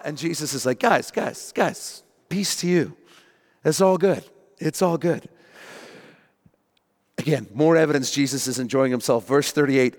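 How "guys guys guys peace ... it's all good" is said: mildly reassuring, higher-pitched appeal; calming down. Acted. Jesus to his panicking disciples, lightly acted reassurance. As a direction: settle a panicked group, playfully acted.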